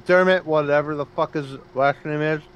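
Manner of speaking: talking around an ice cube; chewing ice while talking; ice in mouth. Real, not acted. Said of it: "Sorry, I'm chewing on an ice cube".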